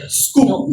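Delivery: scoop said firmly, drawn out; teacher stressing scoop. Shown as a demonstration. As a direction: lean on the word scoop. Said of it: "I stress on this word".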